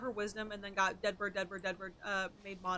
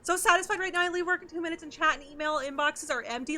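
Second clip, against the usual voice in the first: excited read; 5 semitones higher, 6 dB louder than usual. Retold or imitated. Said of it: "reading chat message".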